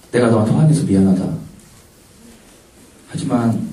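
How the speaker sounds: low-pitched, sincere retold apology; tender reassurance. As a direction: speak low, as if holding him close. Retold reconciliation while embracing him.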